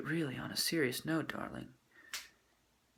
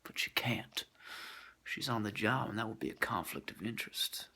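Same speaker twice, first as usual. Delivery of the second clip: whisper; 3 semitones lower, 6 dB quieter than usual. Pretend. Whispered aside in story.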